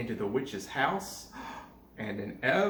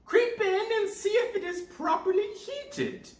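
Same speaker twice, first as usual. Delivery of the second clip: commanding witch. Acted. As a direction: order her in with menace. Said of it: "said the witch".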